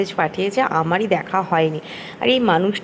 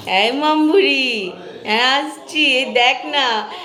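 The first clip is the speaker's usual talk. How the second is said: slow coaxing call; 5 semitones higher, slower than usual. Real, not acted. Calling the toddler, slow.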